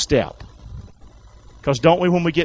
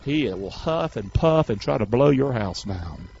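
slow, lowered warning; low deliberate preaching; 4 semitones lower, 3 dB quieter, slower than usual. Real, not acted. Preacher likens Satan to the big bad wolf, low deliberate preaching. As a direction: draw it out in a low voice.

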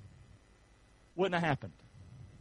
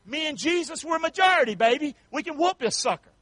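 bold confidence; 6 semitones higher than usual. Retold or imitated.

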